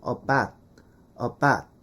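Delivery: "about" shortened to "uh-bat"; glide dropped. Shown as a demonstration. Teacher showing the simplified vowel, glide dropped. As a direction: say "about" with a plain a, no u. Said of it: "그냥 바만 발음하는 거예요".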